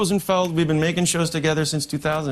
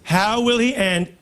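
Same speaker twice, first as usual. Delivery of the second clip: Trump impression; 3 semitones higher than usual. Trump-style rambling speech.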